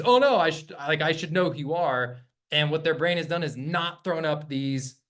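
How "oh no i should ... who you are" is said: sudden worry they should know you; startled realization. Retold or imitated. Lead scrambling to place the caller, mildly startled. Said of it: "they get this".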